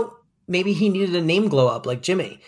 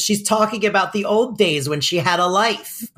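imitated old lady; 5 semitones higher than usual. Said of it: "the old lady turns to him and she goes".

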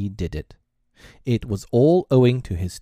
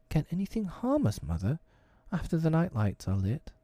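put-on high, soft little child's voice; hushed, high-pitched childlike question; small boy; 9 semitones higher, 6 dB quieter than usual. A narrator's reading. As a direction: ask softly as a drowsy small boy. Sleepy small boy asks mother.

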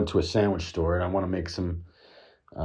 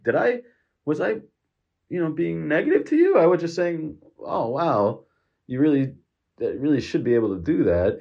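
defensive; 7 semitones higher than usual. Retold or imitated. Defending himself to the counterman.

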